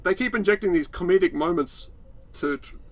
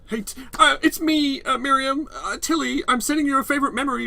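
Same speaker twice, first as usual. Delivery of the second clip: mock sentimental; 10 semitones higher than usual. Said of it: "Very, very terrible".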